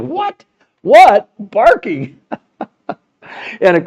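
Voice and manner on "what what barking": high incredulous "What? What? Barking?"; retold disbelief. Host retelling his shock at a London station name, high and incredulous. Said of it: "I'm going like".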